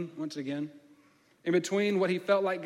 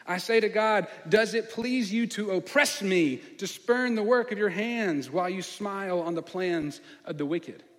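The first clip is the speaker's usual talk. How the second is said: anguished lament; 4 semitones higher, 4 dB louder than usual. Acted. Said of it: "expressions of lament found in the Bible".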